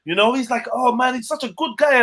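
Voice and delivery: a hint of the guy gushing praise; imitating the guy. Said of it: "he was like".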